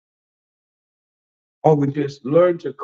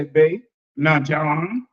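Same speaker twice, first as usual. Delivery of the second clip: imitating the wife; 3 semitones lower, much slower than usual. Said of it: "she gonna say".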